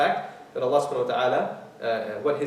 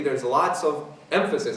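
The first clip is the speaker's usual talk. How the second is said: slow down and lean on "emphasis"; "emphasis" drawn out with extra weight; stress on emphasis. Real, not acted. Lecturer pointing out repeated emphasis in a verse, stress on "emphasis". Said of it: "putting a lot of emphasis on the word emphasis".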